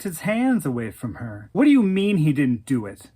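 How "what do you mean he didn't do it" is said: angry. Retold or imitated. Angry confrontation with boyfriend.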